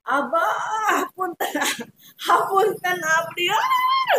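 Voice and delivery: crying out, slow and pleading; re-living a sobbing apology; retold crying plea. Retelling her crying prayer to Abah, pleading. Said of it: "Saya teriak-teriak sambil bilang".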